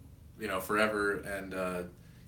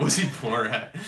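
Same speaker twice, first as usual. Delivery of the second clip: put-on Greek accent; 2 semitones higher, 5 dB louder than usual. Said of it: "It's not the best Greek accent".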